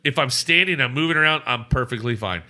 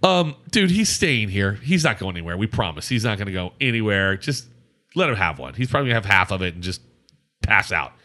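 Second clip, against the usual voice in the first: lower, calm persuading friend; reassuring buddy; 5 semitones lower than usual. Retold or imitated. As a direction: talk the bartender down gently. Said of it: "He's like".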